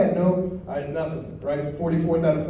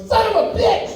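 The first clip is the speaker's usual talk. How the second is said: shocked curse; 6 dB louder than usual. Retold or imitated. Waking to find room gone.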